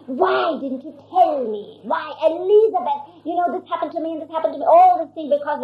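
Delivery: half-hearted scolding that rushes in the middle; mock annoyed Norina. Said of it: "Norina was really mad".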